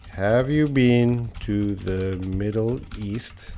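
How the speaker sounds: slow, careful teacher read; slow model sentence. Shown as a demonstration. Teacher slowly reading a student's question aloud. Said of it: "I'm gonna fix up your question here".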